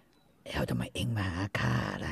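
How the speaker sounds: เสียงแหบ ปากเต็ม. Retold or imitated. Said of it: "ตอนที่มันทำเสียงแหบๆ แล้วมีอะไร อยู่ในปากเต็มไปหมดเลย".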